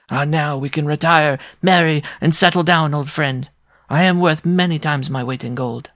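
high, elated dwarf voice; exultant cry. A narrator's reading. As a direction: cry out the good news to an old friend. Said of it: "and cried out".

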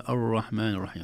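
الرحمن with a non-Arabic r sound; foreign r. Shown as a demonstration. Teacher showing the foreign r as an error. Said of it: "أو يكون عجمة".

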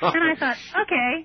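high, laughing reply. Real, not acted. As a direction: speak through a laugh. Laughing through retold reaction.

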